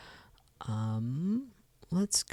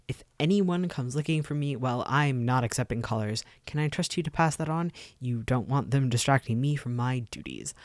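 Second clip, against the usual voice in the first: bossy engineer; 4 dB louder than usual. Acted. Recruit's instructions.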